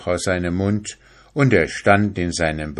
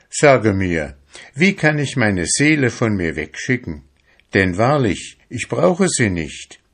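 higher, earnest plea to the priest; lightly voiced young fisherman imploring; fisherman pleading; 4 semitones higher than usual. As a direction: beg the father for a way out.

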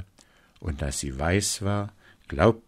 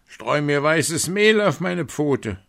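higher, demanding wolf; 8 semitones higher, 4 dB louder than usual. A narrator's reading. Wolf bossing the miller, demanding. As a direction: order it like a bully. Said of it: "lief er zum Müller und forderte".

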